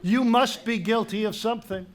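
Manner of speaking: loud, sharp rebuke; angry accusation. Acted. King to the stalling guard, sharp loud rebuke. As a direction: cut through his excuses.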